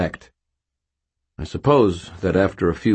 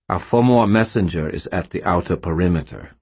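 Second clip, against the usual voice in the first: contemptuous skull voice. Acted. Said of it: "a vague contempt in its voice".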